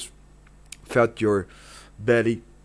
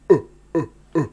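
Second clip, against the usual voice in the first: staccato grunts; 5 semitones higher, 3 dB louder, much faster than usual. Shown as a demonstration. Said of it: "do this".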